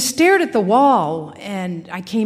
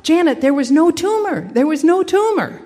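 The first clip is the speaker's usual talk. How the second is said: nurse waking her; 5 semitones higher than usual. Retold or imitated. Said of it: "a woman's voice going".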